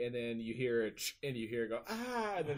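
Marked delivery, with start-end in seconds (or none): 1.9-2.3 imitated pained cry. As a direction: mimic a movie victim crying out. Imitating stabbed woman's cry.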